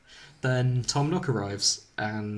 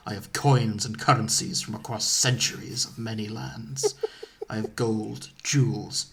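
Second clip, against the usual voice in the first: lordly Dracula; 3 semitones lower than usual. Acted. Voices Dracula offering his riches.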